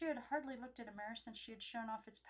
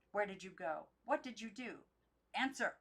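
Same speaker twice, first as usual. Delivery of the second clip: demanding; 5 dB louder than usual. Acted. Aunt demanding an answer.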